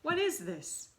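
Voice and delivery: high, loud bratty question; uneasy demand. Acted. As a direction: snap it, suspicious. Boy demands, uneasy on stage.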